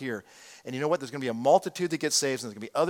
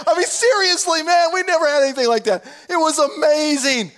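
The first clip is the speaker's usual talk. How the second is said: laughing through the words, high and loud; real laughing wonder, slowing at the end; 12 semitones higher, 6 dB louder than usual. Real, not acted. Pastor laughing as he recalls the storm with his wife.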